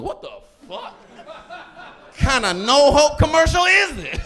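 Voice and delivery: high, laughing through it; laughing disbelief. Retold or imitated. Comic reacting to the grim ad, high and laughing. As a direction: crack up at the hopeless ad. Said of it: "I'm like".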